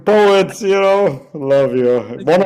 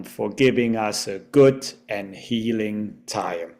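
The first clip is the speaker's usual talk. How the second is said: slow, measured reading with drawn-out line endings; each thank-you lifted, then easing down slowly; poem recitation. Acted.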